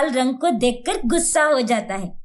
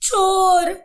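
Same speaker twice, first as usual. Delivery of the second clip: alarmed shout; 6 semitones higher, much slower than usual. Acted. Woken household catches thieves.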